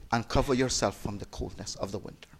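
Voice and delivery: soft, low compassionate offer; hushed, kindly voice dropping low; gentle kindness. Retold or imitated. Prophet giving his coat to a shivering old man, gentle kindness.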